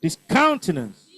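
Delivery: Discountenance with the beat on "count"; stress on second syllable. Shown as a demonstration. Teacher drilling stress patterns with the class, second syllable of Discountenance stressed. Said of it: "Second syllable".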